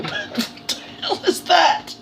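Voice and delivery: slow, high, breathy laughing question; amused disbelief at the turnip. Real, not acted. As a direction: squeak it out through laughter. Laughing at rutabaga again.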